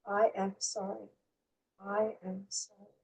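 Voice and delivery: slow, very soft, inward apology; slowly, from inside. Shown as a demonstration. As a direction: let each one sink in, hushed, with pauses. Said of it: "like, slowly".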